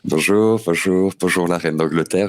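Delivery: low, smooth showman greeting; suave voice. Pretend. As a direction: lay on the smooth charm, low. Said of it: "avec ta voix suave".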